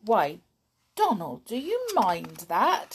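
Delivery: a touch of surprise, rising question; lightly surprised, innocent ask; mild surprise. Acted. Susan feigning surprise that Donald minds, mild. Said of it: "said Susan in surprise".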